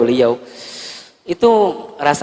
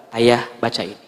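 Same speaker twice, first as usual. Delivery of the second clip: lirih dan tenang; 8 semitones lower, 5 dB quieter than usual. Acted. Wife quietly hands over proof.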